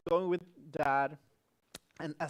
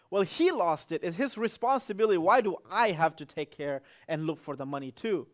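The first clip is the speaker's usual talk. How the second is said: upset brother; 6 dB louder than usual. Retold or imitated. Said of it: "John was getting upset".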